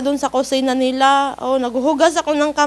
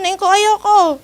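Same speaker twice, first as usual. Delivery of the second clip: retold crying plea; 6 semitones higher, 4 dB louder, slower than usual. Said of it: "umiiyak na ako".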